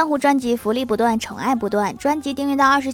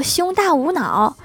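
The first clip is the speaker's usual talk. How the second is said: delighted wife; 5 semitones higher, slower than usual. Acted. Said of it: "郭大嫂大喜".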